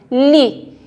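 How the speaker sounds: LI isolated, mouth barely open; near-closed mouth. Shown as a demonstration. Teacher repeating li for pupils, careful demonstration. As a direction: sound out a narrow, careful LI. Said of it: "a boca de vocês quase não abrem".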